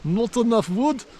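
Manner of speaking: lightly put-on Russian accent, quoting the local bloke. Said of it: "but I'll do Russian voice".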